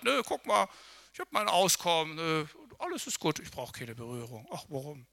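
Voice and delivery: a man who needs nothing from Jesus; smug self-sufficiency. Acted. Hammed-up smug cheer.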